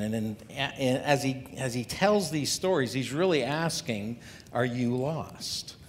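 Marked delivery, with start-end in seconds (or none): 4.5-5.8 slow, searching question with weight on "are"; drawn-out heartfelt "Are you lost?"; spiritual question. Shown as a demonstration. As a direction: ask "Are you lost?" slowly, about the soul. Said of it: "he's not talking about directionally".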